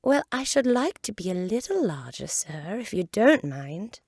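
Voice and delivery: politely asking to be larger; young Alice. Acted.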